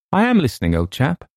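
high, mildly soothing reply. A narrator's reading. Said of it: "he replied soothingly".

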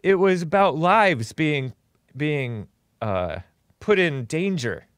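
slow, slightly girly mock quote; lightly voiced girly imitation. Host quoting Patreon founder's excuse, lightly girly imitation. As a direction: imitate him with a hint of girliness. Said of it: "this girly voice".

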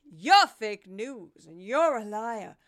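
hammed-up politician snapping at the press; Kari Lake impression. Podcaster mocking Kari Lake, slow and accusing. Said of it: "like the male Kari Lake".

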